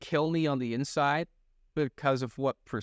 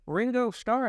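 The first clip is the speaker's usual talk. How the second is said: imitating Japanese girls; 8 semitones higher than usual. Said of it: "the girls were just like".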